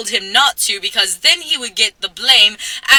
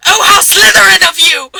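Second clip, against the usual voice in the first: mock angry; 8 semitones higher, 9 dB louder than usual. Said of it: "that apparently wasn't angry".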